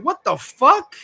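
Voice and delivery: high, rising disbelief; incredulous reaction. Retold or imitated. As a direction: act out being baffled. Retelling baffled reaction to a quote.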